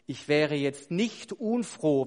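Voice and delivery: "nicht unfroh" drawn out and loud; emphatic understatement. Shown as a demonstration. Congregation hinting the preacher should finish, emphatic "nicht unfroh". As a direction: lean slowly and firmly on "nicht unfroh". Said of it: "eine starke Betonung".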